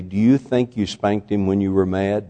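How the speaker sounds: retold meek challenge. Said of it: "she said meekly".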